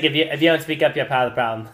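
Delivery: lightly mocked Boston accent. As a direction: quote the PSA kid with a Boston accent. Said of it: "should we be making fun of accents".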